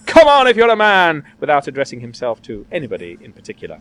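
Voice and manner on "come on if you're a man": loud, raised theatrical dare; bold, ringing challenge; fighting challenge. A narrator's reading. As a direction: call him out like a prizefighter. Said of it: "fancy attitude and says".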